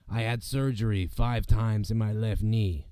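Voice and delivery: slow, lightly voiced wrestler impression; lightly imitated wrestler, slowed right down; Rey Mysterio voice. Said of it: "I did his voice".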